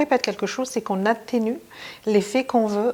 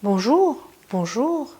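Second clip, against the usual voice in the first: playful greeting; 3 semitones higher, slower than usual. Shown as a demonstration. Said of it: "il y a des variantes".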